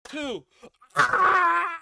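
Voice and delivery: mock referee count breaking off; ref's count. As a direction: count like a ref and cut off with a yelp. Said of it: "ref goes".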